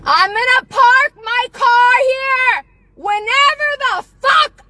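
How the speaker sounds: high, loud shouting; saying it loud. Real, not acted. A woman shouting threats at her neighbor, loud. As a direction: shout it so she can't miss it. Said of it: "I'm gonna say it loud".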